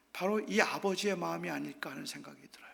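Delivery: whispered reflection; whispered aside. Real, not acted. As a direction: drop to a breathy whisper. Preacher drops to whisper.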